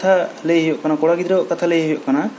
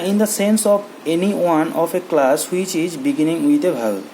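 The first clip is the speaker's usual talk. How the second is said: the English rule read very slowly; much slower than usual. Shown as a demonstration. Teacher reading the rule slowly to the class. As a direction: dictate the rule word by word. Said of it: "ᱱᱚᱰᱮ ᱠᱚ ᱞᱟᱹᱭᱫᱟ".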